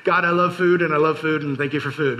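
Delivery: lightly voiced friend saying grace; half-hearted goofy grace; imitating Matt's prayer. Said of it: "as Matt says".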